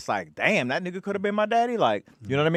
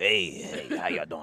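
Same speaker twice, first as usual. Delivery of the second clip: heavy, soft smoker's cigarette voice; 9 semitones lower, 7 dB quieter than usual. Retelling meeting his dad's mother: imitating her smoker's cigarette voice. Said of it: "She had the cigarette voice".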